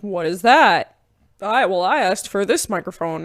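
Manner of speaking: mock indignant complaint, only mildly heated; mildly upset. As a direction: imitate someone getting a little worked up. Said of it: "he's kind of getting upset".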